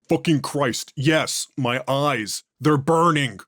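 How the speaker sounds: strained, pained gasps; in agony. Acted. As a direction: force the words out through the burning. Eyes burning, in agony.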